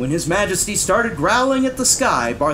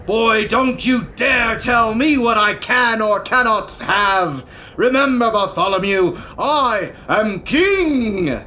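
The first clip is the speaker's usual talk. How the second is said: loud, high, imperious scolding; outraged royal rebuke, slowing at the end; angry king; 6 semitones higher, 4 dB louder than usual. A narrator's reading. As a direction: put the boy in his place. King angrily scolds page boy.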